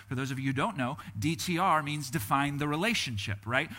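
ordinary delivery

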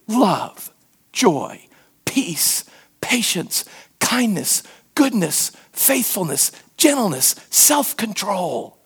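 each word set apart, slowing at the end; measured listing of virtues; deliberate list. Real, not acted. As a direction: savor each fruit in turn. Listing fruits of the Spirit.

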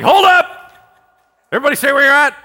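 high, loud commanding call; Paul calling out. Acted. Paul shouting to the escaping prisoners, high and loud. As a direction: stop the crowd with a shout. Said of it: "Paul's like".

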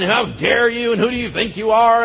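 high-pitched railing rant; mock angry yelling. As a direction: imitate someone railing at God. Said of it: "we're yelling, we're screaming at him".

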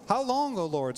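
How long lifted high and pressed, O Lord dropping; pleading lament. Shown as a demonstration. Preacher demonstrating the psalm's plea, a lifted lament. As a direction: cry How long up high, then let O Lord fall. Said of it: "they're real, they're honest".

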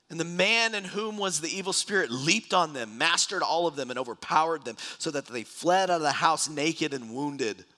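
preacher reading a promise aloud; scripture reading. Acted. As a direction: proclaim it to the congregation.

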